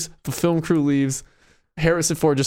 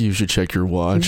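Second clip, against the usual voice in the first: very low creepy magician; creepy David Blaine; 11 semitones lower than usual. Acted. David Blaine stopping someone late for work, low and creepy. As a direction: sink the pitch into a creepy deadpan. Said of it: "Yeah, in his creepy voice".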